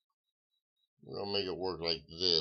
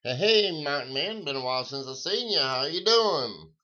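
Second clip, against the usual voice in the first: excited greeting; 8 semitones higher, 6 dB louder than usual. Real, not acted. Greeting a viewer in chat.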